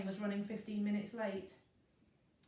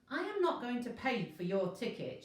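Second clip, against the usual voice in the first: shouted; 5 semitones higher than usual. Acted. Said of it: "shouted the man".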